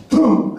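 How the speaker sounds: imitated arrow shot.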